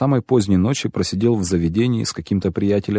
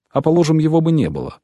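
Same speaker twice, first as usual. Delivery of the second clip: raised, high-pitched call; shouted afterthought, pitched up rather than very loud; calling after someone; 9 semitones higher, 3 dB louder than usual. A narrator's reading. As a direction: call out to someone who is leaving. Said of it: "крикнул ему вслед дворецкий".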